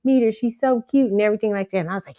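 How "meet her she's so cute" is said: reassuring stranger. Retold or imitated. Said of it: "He said, he said".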